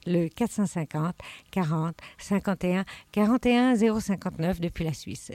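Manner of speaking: attempted airport public address voice; airport announcer voice. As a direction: read the number like a terminal announcement. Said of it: "J'ai essayé de faire une voix d'aéroport".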